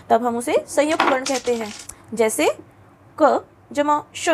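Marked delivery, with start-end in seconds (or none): 3.2-4.3 spelled out slowly, letter by letter; slow spelling out. Shown as a demonstration. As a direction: break it into parts slowly. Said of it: "अगर हम इसको लिखते हैं". (धीरे-धीरे अक्षर जोड़ते हुए)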